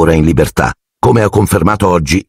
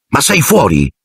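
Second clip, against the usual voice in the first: shrieking; 8 semitones higher than usual. A narrator's reading. Stan scolding Harry for saying the name, mild shriek. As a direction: squeal it in understated alarm. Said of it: "strillò Stan".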